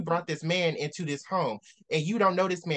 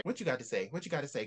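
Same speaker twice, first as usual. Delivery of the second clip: quiet challenge; 3 semitones lower, 7 dB quieter, faster than usual. Real, not acted. Challenging book character.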